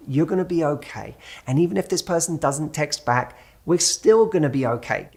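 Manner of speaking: gentle, reassuring self-talk; a touch of tender reassurance; compassionate voice. Acted. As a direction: soothe a scared inner child. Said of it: "speak to it in a loving, compassionate voice".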